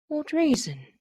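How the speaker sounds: high frightened question; young woman asking her dying uncle, frightened and high. A narrator's reading. A scared, rising plea. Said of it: "in a frightened voice".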